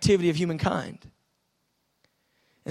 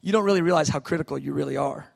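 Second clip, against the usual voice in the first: kindly; 5 semitones lower, faster than usual. Retold or imitated. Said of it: "he just said it so kindly".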